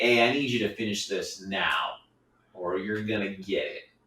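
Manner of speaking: dripping-with-sarcasm, super sarcastic tone. Retelling own past joking words to coworkers: imitating own sarcastic threat. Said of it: "I was being super sarcastic".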